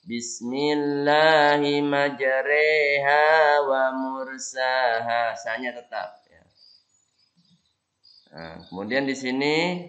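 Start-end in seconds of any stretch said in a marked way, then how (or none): 0.0-5.3 "majreha" e on ra, "mursaha" kept plain a; imalah on ra only. Shown as a demonstration. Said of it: "Cuma di ro-nya saja".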